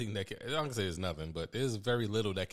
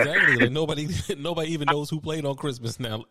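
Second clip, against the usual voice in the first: much louder and higher, bursting in to agree; excited agreement; 6 semitones higher, 7 dB louder than usual. Real, not acted. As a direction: jump in fired up, laughing a little. Eager agreement with co-host.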